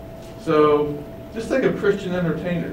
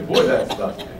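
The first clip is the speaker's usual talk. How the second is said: whispered gossiping visitor; 4 dB quieter than usual. Pretend. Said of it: "They'll say".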